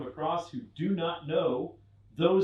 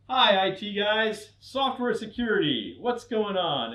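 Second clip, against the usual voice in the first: higher, slower, cheery hello to the IT guys; chipper greeting; 5 semitones higher, 4 dB louder, slower than usual. Retold or imitated. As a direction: sing out a friendly hi. Greeting the IT team.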